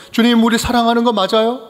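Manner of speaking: demanding, accusing tone toward the Lord, 거 lifted, rising end; challenging question. Retold or imitated. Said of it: "이렇게 따지는 거예요". (주님께 따지듯 묻는 목소리)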